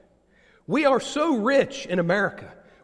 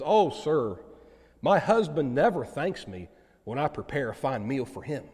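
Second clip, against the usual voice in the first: mildly bashful, lower voice; a touch of shy embarrassment, pitched down; embarrassed and shy; 5 semitones lower than usual. Acted. Wife answering the grateful dinner guest, mildly shy. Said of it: "in a kind of embarrassed and shy way".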